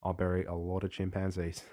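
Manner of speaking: put-on Australian accent. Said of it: "you were indulging your Australian accent there".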